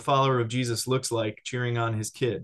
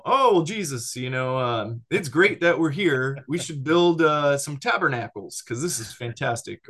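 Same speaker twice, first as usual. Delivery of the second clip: eager blurting; 3 semitones higher, 3 dB louder than usual. Retold or imitated. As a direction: gush like an overeager follower who can't hold back. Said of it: "Peter's just, like, foot in the mouth".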